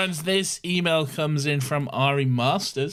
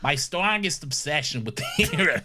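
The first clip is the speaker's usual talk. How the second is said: JFK-ish Boston accent; 3 semitones higher than usual. Shown as a demonstration. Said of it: "the way you're saying".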